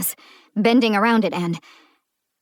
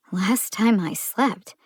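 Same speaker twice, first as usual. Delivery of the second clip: caught off guard; slower than usual. Acted. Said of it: "caught her off guard".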